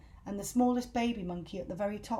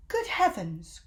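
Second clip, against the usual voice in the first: cried out; 2 semitones lower, 4 dB louder than usual. Acted. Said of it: "cried all the monkeys together".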